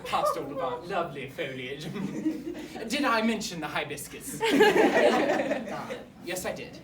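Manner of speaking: lightly put-on formal headmaster breaking bad news; stiff, wordy school principal; awkward headmaster. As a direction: play a pompous headmaster explaining himself to parents. Headmaster explains pupil's death to parents.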